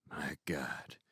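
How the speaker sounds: hushed mock whisper. A narrator's reading. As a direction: breathe it like at a deathbed. Lewis aside over sleeping girl.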